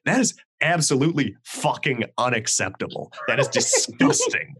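indignant tirade. Retold or imitated. Skater kid lays into waitress.

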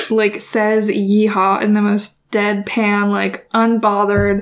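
slow, unbothered deadpan. Shown as a demonstration. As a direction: say it slowly, totally unbothered. Describes deadpan while sounding it.

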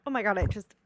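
coughing after inhaling a bug; just swallowed a bug. Real, not acted. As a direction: choke out the words after a bug. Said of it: "I think I just inhaled a bug".

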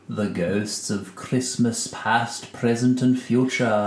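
slow, low, spooky ghostly voice. Acted. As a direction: draw it out like a haunting ghost. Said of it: "That was terrifying".

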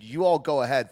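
usual speaking voice

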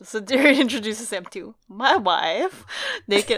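a lightly put-on Borat accent, laughing through it; terrible Borat accent. Retelling the chapter to the co-host in a terrible Borat accent. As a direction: ham up a Borat accent badly. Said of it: "I'm doing a terrible job at this accent".

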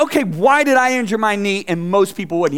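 mildly indignant retort, re-enacted; mad. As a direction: replay a touch of annoyance at the therapist. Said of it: "I was, like, mad at him".

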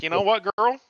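hammed-up girl, I'm with you; sassy girlfriend voice. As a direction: back her up like a best friend. His answer siding with wife.

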